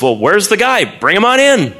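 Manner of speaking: high, loud kingly demand; a king expecting a giant warrior; lightly voiced King Saul calling for the champion; impatient king.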